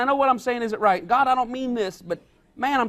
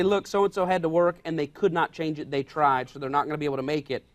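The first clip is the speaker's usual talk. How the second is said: gentle explanation; 7 semitones lower than usual. Retold or imitated. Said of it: "put people in a good light".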